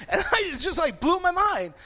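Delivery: laughing while telling it. Real, not acted. Preacher laughing at his childhood memory. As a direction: get the words out through a laugh.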